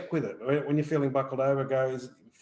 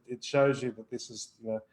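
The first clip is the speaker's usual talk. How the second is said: normal talking voice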